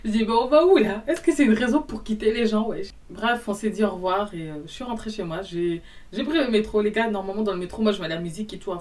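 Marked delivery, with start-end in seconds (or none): 0.3-2.9 loud, high, indignant retort; retold outburst. To the guy walking out, a loud indignant retort. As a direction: throw the question back at him, loud. Retelling how she snapped at him.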